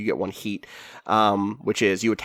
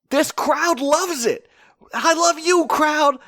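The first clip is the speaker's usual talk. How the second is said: high, drawn-out crowd-pleasing cry; milk the crowd in a high, stretched voice; Shaw; slower than usual. Acted. GM as wrestler soaking up the crowd, high hammy shout. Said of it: "Shaw comes out and is like".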